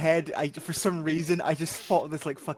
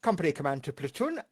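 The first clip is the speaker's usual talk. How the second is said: military radio call; 5 dB louder than usual. Acted. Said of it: "Fucking radio".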